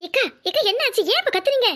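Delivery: high, startled questions; alarmed questioning. Acted. Friend asking why she is screaming, high alarmed voice. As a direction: demand what happened, in alarm.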